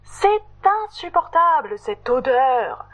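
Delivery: high, shocked protest; indignant outburst. Acted. Meredith protesting to Totoche about the cheese, high and indignant. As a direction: throw up your hands in disgust. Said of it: "Meredith lève les bras au ciel".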